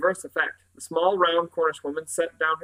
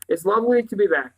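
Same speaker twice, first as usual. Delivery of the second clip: mildly polite, lifted pitch and level; a touch of tactful politeness; diplomatic; 5 semitones higher, 5 dB louder than usual. A narrator's reading. Girl smoothing things over with her hosts, mildly diplomatic. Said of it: "Jane said diplomatically".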